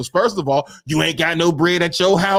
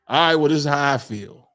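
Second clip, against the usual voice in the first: calm honest partner; 3 semitones lower than usual. Retold or imitated. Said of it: "Transparency is key".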